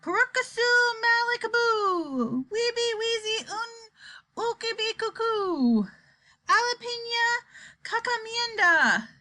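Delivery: high, drawn-out strange words; slow, steely incantation. A narrator's reading. Wonka addressing the world in strange words, slow and steely. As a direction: stretch each phrase, let the endings slide down. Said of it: "The words came more slowly, but there was a touch of steel in every syllable".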